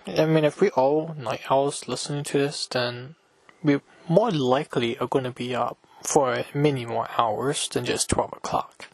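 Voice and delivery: stuffy, blocked nose; talking with a blocked nose. Real, not acted. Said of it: "I can't breathe through my nose".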